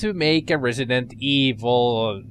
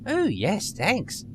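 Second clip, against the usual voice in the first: put-on nerdy girl voice; 4 semitones higher, much slower than usual. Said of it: "I gave her a little nerdy voice".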